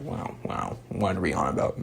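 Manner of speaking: alarmed YouTube. Retold or imitated. Vlogger imitates YouTube reacting to a movie quote, hushed mock alarm. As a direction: play YouTube clutching its pearls, hushed. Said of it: "In case YouTube's just like".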